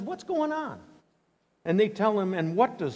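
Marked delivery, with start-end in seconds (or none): 0.0-0.8 surprised king. Retold or imitated. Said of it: "and he says".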